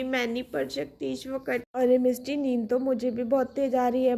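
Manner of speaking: put-on sleepy kids scheming to go to the roof; two small kids.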